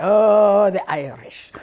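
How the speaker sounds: "the Irish" breathed in a whisper; whispered aside. Acted. To listeners, fondly naming the Irish, whispered. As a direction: drop to a whisper as if sharing a secret.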